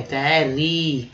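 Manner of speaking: कैरी drawn out very slowly; slow demo. Shown as a demonstration. Teacher sounding out कैरी slowly for students. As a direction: stretch कैरी carefully. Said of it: "कार है तो कै पढ़ेंगे".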